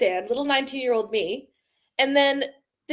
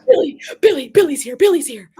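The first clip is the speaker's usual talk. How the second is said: excited call; 3 semitones higher, 9 dB louder than usual. Retold or imitated. Excited call over walkie-talkie.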